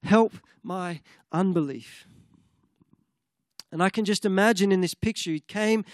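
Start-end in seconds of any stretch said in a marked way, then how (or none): 0.0-2.1 slow, louder desperate plea; desperate father crying out to Jesus. Retold or imitated. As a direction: cry out to Jesus for help. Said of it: "the man cries out".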